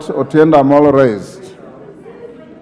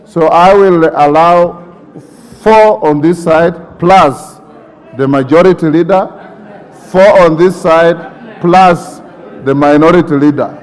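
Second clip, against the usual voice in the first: slow and deliberate. Real, not acted. Speaker firmly restating his ruling.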